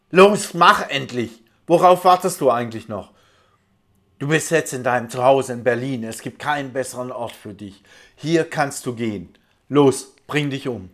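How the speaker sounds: loud, urgent screaming demands; screamed commands. Retold or imitated. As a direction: scream the orders, pushing hard. (schreiend und drängend)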